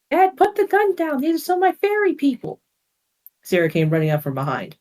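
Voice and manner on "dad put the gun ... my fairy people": urgent plea. Acted. Sarah pleads with armed father.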